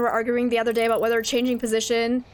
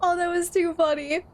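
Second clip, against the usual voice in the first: laughing; 6 semitones higher than usual. Real, not acted. Laughing hard.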